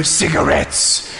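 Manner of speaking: slow whispered punchline; deadpan whisper. Retold or imitated. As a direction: breathe it out slowly, dead serious. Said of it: "and I go".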